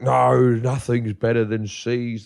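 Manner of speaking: a hint of stubborn mum, slowed; bad mum impression. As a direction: drag it out like mum insisting. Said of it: "this is a really bad impersonation of my mum".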